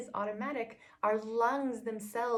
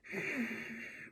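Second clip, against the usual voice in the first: deep throaty sigh; 3 semitones higher, 5 dB quieter than usual. Shown as a demonstration. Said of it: "you don't wanna be like".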